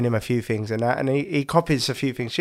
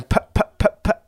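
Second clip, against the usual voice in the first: imitating toddler; 8 semitones higher than usual. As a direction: copy the baby's sleepy babble. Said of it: "we just heard him going".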